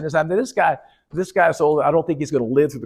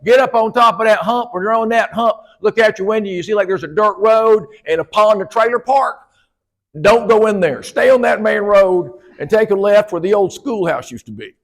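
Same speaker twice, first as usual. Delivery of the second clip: put-on old country man giving directions; 4 semitones higher than usual. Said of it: "He said".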